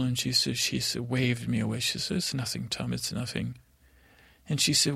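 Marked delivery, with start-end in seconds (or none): 2.2-3.6 softer, brushing off concern; hushed dismissal. Retold or imitated. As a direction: imitate a mother quietly waving it away. Mother waves away son's concern.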